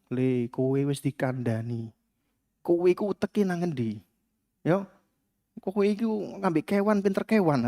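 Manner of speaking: soft, slow scolding with biting words; quiet and slow, each jab calm; soft cutting Javanese parent. Retold or imitated. Solo parent scolding their son, soft slow cutting rebuke. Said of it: "pelan, tapi kalimatnya menusuk-nusuk".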